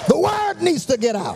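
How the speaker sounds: preacher's ringing first cry; proclaiming. Acted. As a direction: call it out to the whole church.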